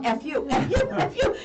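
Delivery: high squawked bird imitation; yelling parrot. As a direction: squawk it repeatedly, climbing in pitch. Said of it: "the bird would yell".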